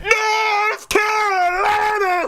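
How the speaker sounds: very slow, high showman call; hammed-up, drawn-out high cry; announcer hype. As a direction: hold each word long like a ring announcer. Host repeats hyped location announcement.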